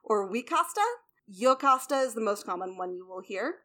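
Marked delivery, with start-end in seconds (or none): 0.3-0.8 Wicasta said "wee-KAH-sta", rising; variant pronunciation. Shown as a demonstration. Teacher offering another variant, Wicasta as wee-KAH-stuh. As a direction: say "Wicasta" starting with a W. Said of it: "I've also heard".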